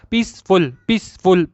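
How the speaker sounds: पीसफुल twice, each broken as पीस, फुल; break despite speed. Shown as a demonstration. Teacher proving the break stays, पीसफुल in two beats. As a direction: repeat पीसफुल briskly, keeping the gap after पीस. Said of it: "जितना भी तेज बोले ना".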